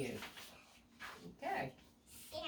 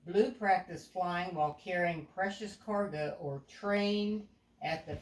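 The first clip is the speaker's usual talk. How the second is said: put-on a clear, even storybook read to a young child; storytelling narration; 3 dB louder than usual. A narrator's reading. Parent reading a picture book aloud to a child, storybook voice.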